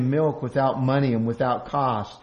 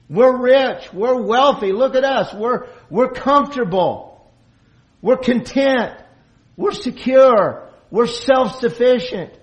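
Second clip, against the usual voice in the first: loud, proud, self-satisfied bragging; smug boast; 9 semitones higher, 6 dB louder than usual. Acted. Preacher mimicking a complacent church, loud smug boasting. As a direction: crow about your riches like a smug congregation.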